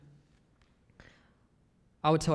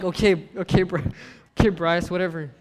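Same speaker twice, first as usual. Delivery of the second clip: annoyed dismissal; 7 dB louder than usual. Retold or imitated. Brushing off a bragging friend.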